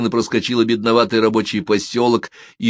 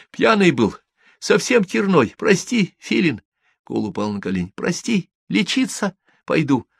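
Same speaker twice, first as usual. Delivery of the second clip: higher, pleading, a touch of panic; frightened begging; 9 semitones higher than usual. Acted. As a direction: beg for forgiveness in fear. Kol begs on his knees. (испуганно, умоляюще)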